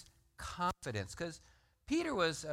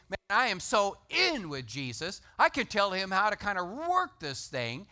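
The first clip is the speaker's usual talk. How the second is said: building, higher and louder, cocky; boastful excitement; 5 semitones higher, 7 dB louder than usual. Retold or imitated. Preacher voicing Peter's cocky thoughts, building higher and louder. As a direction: let Peter's bragging swell up.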